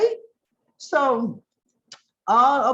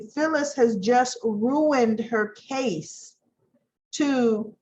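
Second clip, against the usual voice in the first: ordinary talk, nothing marked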